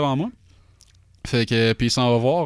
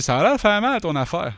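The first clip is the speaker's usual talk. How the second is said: mock concern; 7 semitones higher than usual. Neighbour's reaction to his grimace, quoted.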